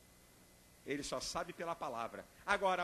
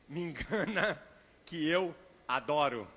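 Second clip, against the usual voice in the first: 1 playful wife; 2 semitones lower, 4 dB louder, slower than usual. Retold or imitated. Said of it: "ela tá naquela".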